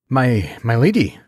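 nervous stammer. Acted. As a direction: trip over the first word. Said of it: "he stammered".

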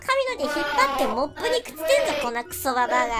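put-on mean girl. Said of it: "こういう女子いるよね".

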